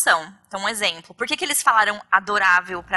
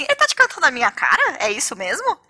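jealous husband; 4 semitones higher than usual. Retold or imitated. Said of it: "E o Beto ficou, tipo, me olhando assim".

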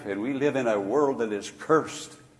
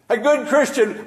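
"good Christian" much higher and louder; emphatic; 11 semitones higher, 8 dB louder than usual. Acted. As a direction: cry out GOOD high. Emphatic repeat of phrase.

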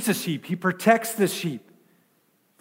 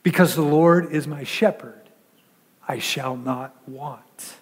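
solemn scripture; 5 semitones lower than usual. Shown as a demonstration. Solemn scripture quote, fading.

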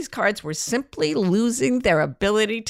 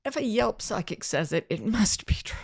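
softer, hushed mock-mystic line; mock whisper; 6 dB quieter than usual. Teasing the cohost about psychics, in a mock whisper. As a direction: breathe it like a spooky secret.

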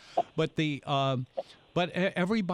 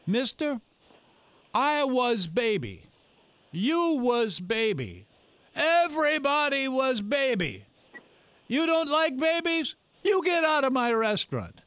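put-on thick Yugoslavian accent; 11 semitones higher, 4 dB louder than usual. Restaurant owner tells a complaining diner off, thick Yugoslavian accent. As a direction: mimic an old Yugoslavian restaurateur scolding a customer. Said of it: "who spoke with a very thick, uh, Yugoslavian ... accent".

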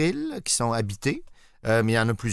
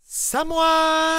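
surprise shout; 4 dB louder than usual. Pretend. Mnemonic surprise yell.

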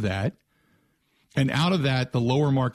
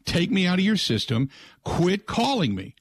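higher, slow mock yell at a pushy caller; a raised, drawn-out retold yell; retold scream; 6 semitones higher than usual. Host retelling his yell at the telemarketer, higher and slowed. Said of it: "I just screamed at the guy".

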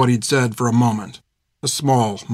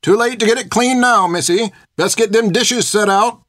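put-on old cook yelling; 9 semitones higher than usual. A narrator's reading. The cook Bartimaeus calls to Finn from the kitchen, hollering. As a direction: holler it from the next room. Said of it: "Bartimaeus yelled from the other room".

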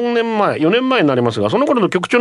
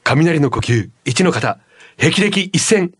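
attempted anime swordsman's attack call, lightly voiced; a hint of an anime hero announcing his move; Zenitsu impression; slower than usual. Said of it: "善逸のモノマネし".

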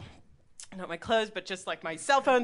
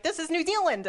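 high, chirpy phone greeting; imitated consulate caller; 8 semitones higher than usual. New Zealand calling late at night, high imitated caller. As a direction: announce yourself in a pitched-up caller voice. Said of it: "And they're like".

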